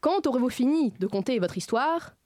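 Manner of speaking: slow, lightly declaimed alexandrine; hammy stage actor. Acted. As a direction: play it as a pompous stage actor. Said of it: "ce morceau de bravoure en alexandrin".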